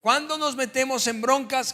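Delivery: ordinary talk, nothing marked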